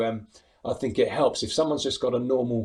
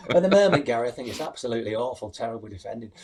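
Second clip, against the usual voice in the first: Mark Lawrenson; faster than usual. Retold or imitated. Impressionist parodying a pundit on bad defending, lightly imitated. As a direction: lightly mimic a grumbling football pundit. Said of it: "do an impression of Mark Lawrenson".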